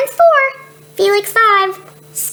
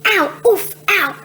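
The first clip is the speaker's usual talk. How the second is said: mock ow; 4 semitones higher than usual. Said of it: "Scarlet six bumps into things".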